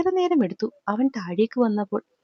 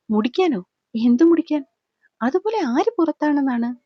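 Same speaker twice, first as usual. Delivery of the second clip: roaring; 3 semitones higher than usual. Acted. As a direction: bellow the questions in fury. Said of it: "അവൻ അലറുകയായിരുന്നു". (അലറിക്കൊണ്ട് ചോദിക്കുന്നു)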